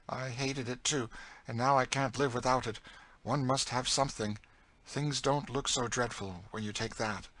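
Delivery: a hint of a world-weary woman; resigned older captive character. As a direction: admit it with hardened resignation. Cassie on drinking.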